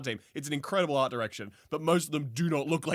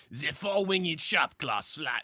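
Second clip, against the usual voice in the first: put-on French accent; 2 semitones higher, slower than usual. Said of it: "I'm going to do this one in a French accent".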